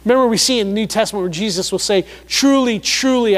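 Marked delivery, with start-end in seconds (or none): 2.3-3.4 "Truly, truly" pitched up, each word falling; emphatic repetition. Retold or imitated. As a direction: stress both words in "Truly, truly". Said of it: "he's repeating himself for emphasis".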